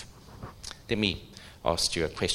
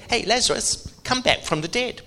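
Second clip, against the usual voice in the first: higher, louder call to the dead; 13 semitones higher, 6 dB louder than usual. Acted. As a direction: summon him back with a raised, high-pitched voice. Acted miracle command to Lazarus.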